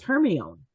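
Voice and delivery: "Hermione" as HER-mee-own; misread pronunciation. Shown as a demonstration. Reader who hadn't seen the movies, "Hermione" as HER-mee-own. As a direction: say "Hermione" as spelt, ending in "own". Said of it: "I never knew how to say that".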